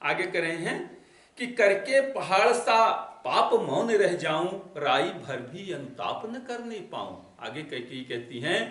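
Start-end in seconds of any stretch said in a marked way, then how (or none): 1.5-7.2 poem recitation. Acted. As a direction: intone the couplet with weight. Recites verse slowly.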